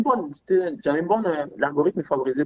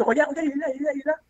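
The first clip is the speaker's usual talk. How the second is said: voix très haut perchée, mots répétés en rafale; alerte excitée; 10 semitones higher, much faster than usual. Retold or imitated. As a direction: signaler vivement quelque chose à sa passagère. Montre le buveur à la fille. (excité, la voix qui grimpe)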